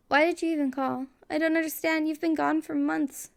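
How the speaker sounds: mild shaky upset, asking why he called; lightly voiced woman, hurt and shaken; shaking voice. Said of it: "She sounds like she's shaking".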